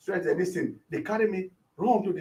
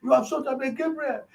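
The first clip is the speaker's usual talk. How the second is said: raised, higher voice imitating alarmed shouts; mock shout, pitched up; retold shout; 5 semitones higher than usual. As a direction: cry it out as the horrified women did. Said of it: "and shouted".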